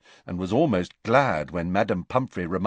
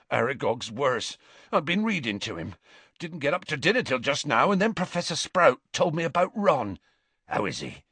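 lightly voiced Hagrid, anxious; 6 semitones higher than usual. Hagrid asks friends about Ron, lightly voiced and worried. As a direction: rush the news out, then ask gently.

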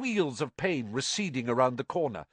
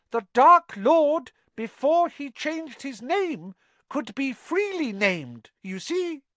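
squeaky house elf; 9 semitones higher, 4 dB louder than usual. Acted. Dobby explaining.

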